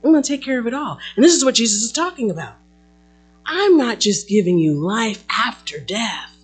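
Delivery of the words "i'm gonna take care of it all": tender, calming promise; reassuring. Retold or imitated. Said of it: "God just stepped up and said".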